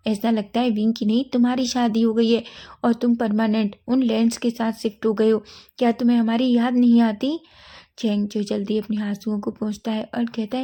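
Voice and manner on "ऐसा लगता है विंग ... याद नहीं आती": a mother's hurt scolding that grows louder; mother scolds her son for staying away. Acted. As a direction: reproach building to a loud complaint.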